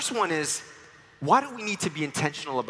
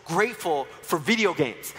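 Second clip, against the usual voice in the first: put-on excited kid; 4 semitones higher than usual. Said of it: "Francis was really excited".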